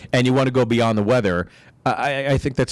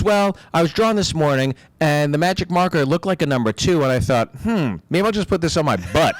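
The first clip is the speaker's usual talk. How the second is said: lightly voiced kid, a bit higher, laughing at the end; hint of an innocent little boy's logic; kid explaining; 6 semitones higher than usual. Son explaining his prank over FaceTime, light kid voice. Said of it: "He goes, he goes".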